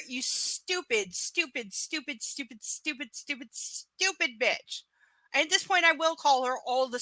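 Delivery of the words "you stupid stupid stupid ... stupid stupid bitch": slow insult fading softer and softer; mocking insult dying away; contemptuous repetition. Real, not acted. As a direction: drag out each stupid with disdain, trailing off.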